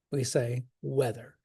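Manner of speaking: "weather" stressed on WEA, the second syllable light; stress on first syllable. Shown as a demonstration. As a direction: lean on the front of "weather". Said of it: "do we say weather?".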